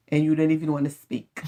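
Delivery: ordinary delivery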